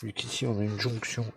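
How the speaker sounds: stuffy nose; talking through a blocked nose. Real, not acted. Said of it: "j'ai le nez bouché".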